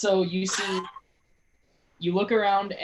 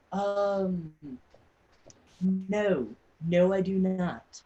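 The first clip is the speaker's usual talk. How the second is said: pompous nobleman; 3 semitones higher, slower than usual. Acted. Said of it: "he looks at you and goes".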